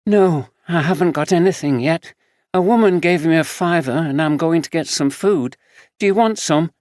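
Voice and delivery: caring friend, a bit weary; young homeless woman. Acted. Samantha answers Fraser.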